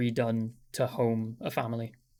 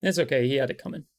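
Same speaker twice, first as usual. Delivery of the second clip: 1 breezy dismissive quip; 2 semitones higher, 4 dB louder, much faster than usual. Acted. NPC replies dismissively.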